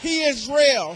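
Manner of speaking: He is real shouted out; peak shout. Real, not acted. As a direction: cry it out at the top. Repeated thrice, falling away.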